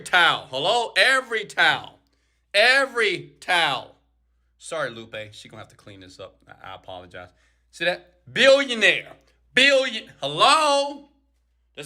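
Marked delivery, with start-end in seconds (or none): 4.6-7.3 quiet aside. Real, not acted. Apologizing aside to maid. 8.3-11.1 excited emphasis. Real, not acted. Excited about towel goal.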